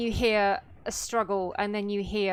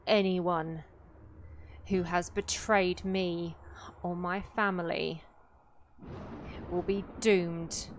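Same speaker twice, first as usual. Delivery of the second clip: slow, measured doom with long pauses; lightly voiced, solemn curse; woman pronouncing a curse; slower than usual. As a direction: lay the curse down word by word. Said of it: "the female once again speaks".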